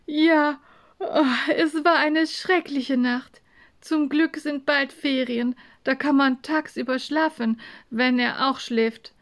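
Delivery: sleepy complaint; yawning, tired. Acted. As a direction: yawn into it and moan about the night. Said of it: "konnte schon wieder das Gähnen nicht unterdrücken".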